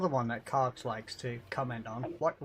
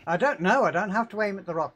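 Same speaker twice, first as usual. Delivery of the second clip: laughing; 6 semitones higher, 8 dB louder than usual. Real, not acted. Mocking echo while laughing.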